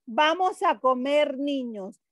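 COMER running straight into NIÑOS, NIÑOS falling; no comma before NIÑOS. Shown as a demonstration. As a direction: say COMER NIÑOS as one phrase, niños as the meal. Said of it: "Si yo digo eso".

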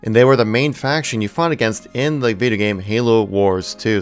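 usual speaking voice

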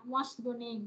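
"What's your name?" falling on "name"; wh-question tune, down on "name"; falling intonation. Shown as a demonstration. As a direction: drop the voice on "name". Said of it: "chữ name mình sẽ xuống".

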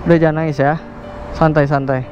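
calm down someone in tears, pitched low; calm reassurance. Real, not acted. Rider comforting a crying stranded stranger, calm and reassuring.

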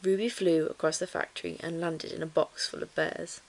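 measured bedtime-story reading; story narration. A narrator's reading. Reading a children's book to listeners, story narration.

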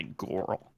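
put-on "girl" said weirdly as "gorl"; odd pronunciation. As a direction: deliberately mispronounce "girl" with an "or" vowel. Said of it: "Why'd you say it so weird?".

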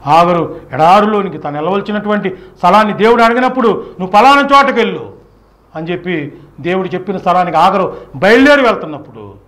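ordinary talk

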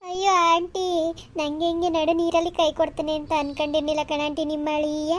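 put-on tearful wail; fake crying. Niece staging tears over her husband, fake crying. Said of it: "start ಮಾಡ್ಕೋ ಅಳು".

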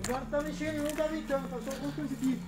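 hushed nervous whisper; nervous night vlog whisper. Real, not acted. Hushed about moving bush.

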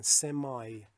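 سمای with a long ai ending; American semi. Shown as a demonstration. Teacher showing how Americans say semi.

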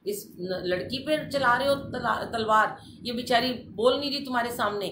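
loud, high, daring them to strike; retold defiant shout. Facing the sword-wielding men to shield the girl, loud defiant shout. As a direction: shout the challenge right in their faces.

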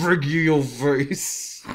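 slow growling gravel threat; low gravel vigilante growl. Acted. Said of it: "We do gravel voice".

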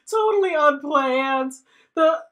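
loud, high, excited; giddy outro. Real, not acted. Ending the episode, loud and excited. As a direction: burst out gleefully.

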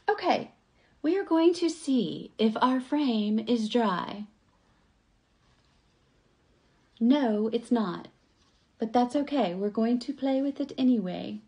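crafter keeping herself calm over the wet frame, measured; forced calm. Real, not acted. Deliberately calm to stay sane. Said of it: "I'm talking like this so that I don't lose my mind more".

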